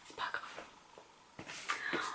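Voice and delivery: hoarse, failing voice from a sore throat. Real, not acted. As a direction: voice giving out, barely there. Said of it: "J'ai une angine". (voix cassée par l'angine)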